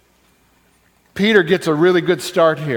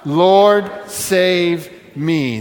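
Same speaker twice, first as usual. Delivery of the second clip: plea said aloud; much slower than usual. Shown as a demonstration. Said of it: "One more time".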